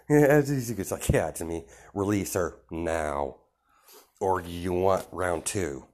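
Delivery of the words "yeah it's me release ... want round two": slow, calm threat to the villain; cool challenge. Retold or imitated. Izuku confronts villain.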